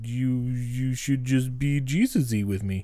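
slow, put-on Australian preacher twang; hammed-up Australian evangelist; Australian accent. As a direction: coax it slowly in a mock Australian accent. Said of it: "in my Australian accent".

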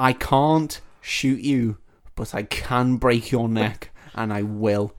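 slow, deliberate threat, lightly acted; mock menacing father. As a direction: spell out the threat word by word, tongue in cheek.

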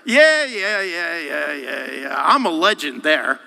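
excited yeahs fading into a laugh; hammed-up bar-regulars cheer; mock cheering. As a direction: hype it up then laugh it off. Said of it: "the other places are like".

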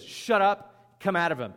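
lightly acted firm command to be silent; acted stern command. Jesus orders the demon out, acted stern command.

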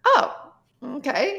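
high startled oh dropping to a small okay; surprised oh okay. Retold or imitated. Retelling to friends, a startled high oh. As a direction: caught off guard by his age, squeak the oh. Learns he's thirty-two.

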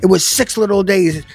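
mock stubborn believer. Preacher mimics a believer condemning doubters, insistent mock voice. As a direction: voice the rigid brother scolding you. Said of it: "you've talked to says".

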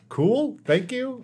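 high-pitched, loud thank you; squeaky thanks. Acted. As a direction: pipe up in a silly high voice.

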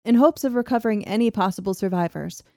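measured documentary-style reading; story narration. A narrator's reading. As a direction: read the old account aloud, evenly paced. Narrates the tunnel disaster.

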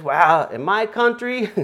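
hammed-up Russian accent for the joke. Pastor telling a joke, in a hammy Russian accent. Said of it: "in my Russian accent here".

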